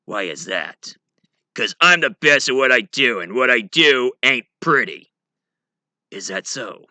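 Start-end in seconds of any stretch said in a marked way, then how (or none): 1.5-5.1 louder tough-guy boast; Wolverine. Acted. Wolverine explaining his name, louder tough boast. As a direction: growl it out like a brawler, lightly voiced. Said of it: "also known as Wolverine".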